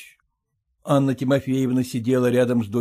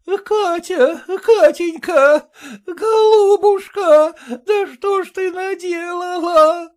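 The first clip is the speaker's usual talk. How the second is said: high, loud, slow keening mother; voiced mother lamenting; wailing mother; 6 dB louder, much slower than usual. A narrator's reading. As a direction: wail her daughter's name. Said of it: "заголосила мать".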